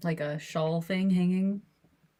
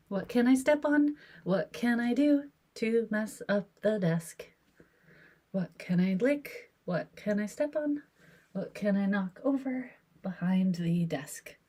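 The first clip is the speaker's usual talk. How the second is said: voicing the cat's thoughts; 3 semitones higher than usual. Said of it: "These are the thoughts I think that he has".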